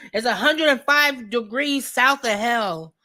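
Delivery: real laughter breaking into the words; laughing. Real, not acted. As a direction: crack up as you repeat the joke. Joking about the heat.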